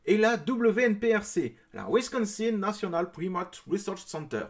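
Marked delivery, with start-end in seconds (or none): 1.9-4.4 clumsy French-accented English; English name with a heavy French accent; bad English accent. Real, not acted. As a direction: read it in a poor English accent. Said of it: "cet accent anglais était vraiment mauvais".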